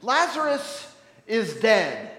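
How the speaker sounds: slow, loud, spaced-out words; dumbed down. Acted. Jesus explaining to clueless disciples, dumbed down. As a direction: spell it out slowly for slow pupils. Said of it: "let me dumb this down for you".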